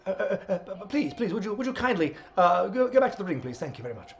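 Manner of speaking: polite English referee. Acted. English referee asking wrestlers back to the ring, polite. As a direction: stammer a meek, courteous request. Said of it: "referees are so polite in England".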